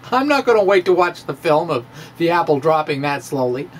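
chuckling through a quick aside; laughing. Real, not acted. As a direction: laugh while rattling off the joke. Joking aside about slow apple.

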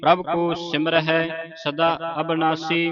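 measured, level-toned Gurbani recitation; sustained monotone chant for learners to follow; scripture recitation. Shown as a demonstration. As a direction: recite evenly, holding the line endings.

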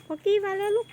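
loud high call to the animals. Real, not acted. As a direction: call out across the field. Calling animals as father arrives.

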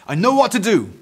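high, loud burst of bright idea; exclaiming. A narrator's reading. Eric knows how to fix the mess, exclaiming. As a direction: announce the plan loudly and high. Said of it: "he exclaimed".

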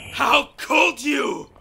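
slow shout, stress on "could"; anguished shout. Acted. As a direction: drag out "How could you?" as a yell. Man accuses alien over his wife.

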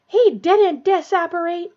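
loud, high, drawn-out roar; angry roar. A narrator's reading. Snape contradicting outside the hospital wing, roaring. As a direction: roar it, stretching the words in fury. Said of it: "Snape roared".

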